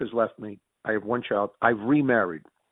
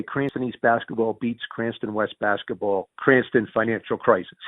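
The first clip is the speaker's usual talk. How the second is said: mock headline. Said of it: "I jokingly say".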